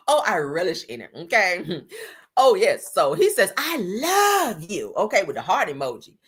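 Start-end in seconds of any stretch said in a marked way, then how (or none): 3.6-4.9 high, very drawn-out "love"; slow, high, put-on pleading; mock lovesick wail. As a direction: croon it like a begging ex, hammed up. Mocking his begging love text.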